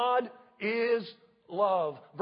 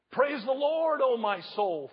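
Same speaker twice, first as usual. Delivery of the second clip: preacher lifting the praise line up; proclaiming; 3 semitones higher, 3 dB louder than usual. Real, not acted. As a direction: call it out in praise. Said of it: "Would you say that with me?".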